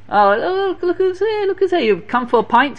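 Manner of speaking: high, mocking sneer of a rich joker; mischievous rich man. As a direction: taunt him like a smug rich prankster. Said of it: "a real mischievous fellow".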